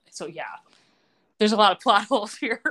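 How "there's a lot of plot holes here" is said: laughing. Real, not acted. Laughing at the plot holes.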